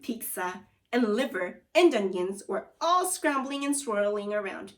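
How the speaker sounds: lively read-aloud narration for a class; storyteller voice for students; story read-aloud. A narrator's reading. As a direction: tell the story to the kids. Teacher reads story aloud.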